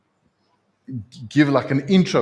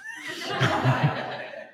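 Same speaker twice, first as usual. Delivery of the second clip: laugh; 3 dB quieter than usual. Real, not acted. Preacher laughs at the story.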